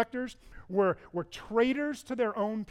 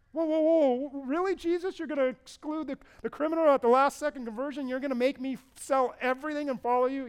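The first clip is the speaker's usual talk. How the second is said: higher, louder incredulous protest; indignant disbelief; 6 semitones higher, 4 dB louder than usual. Acted. Rich young ruler protesting to Jesus, higher and incredulous. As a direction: balk at the demand in disbelief.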